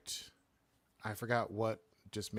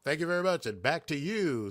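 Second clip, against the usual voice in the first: mock anchor; 5 semitones higher than usual. Plays along with studio hand-back.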